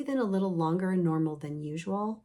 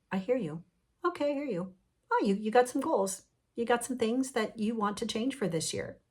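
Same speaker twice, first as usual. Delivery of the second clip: higher-pitched, gently acknowledging; reassuring self-talk; 5 semitones higher than usual. Acted. Speaker tells their inner parts they are heard, reassuring. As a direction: acknowledge them kindly in a higher voice.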